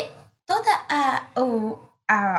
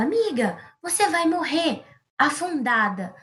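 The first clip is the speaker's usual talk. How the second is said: mild shout; 3 semitones higher, slower than usual. Acted. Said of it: "E todo mundo gritava".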